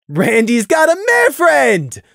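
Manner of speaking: slow, loud singsong tease; gleeful schoolyard taunt; delighted teasing. Acted. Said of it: "Fiera interrupted in delight".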